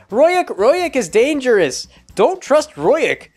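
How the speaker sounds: slow, high, eerie reading of Royuk; warning note voice. Acted. Reading the book's creepy warning to the viewer, slow and high. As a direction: draw out Royuk is dangerous like a spooky warning. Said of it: "note scrawled in the book that says".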